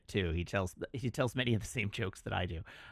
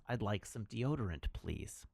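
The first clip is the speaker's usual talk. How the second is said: attempted English accent; 8 dB quieter than usual. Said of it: "That was not British or English".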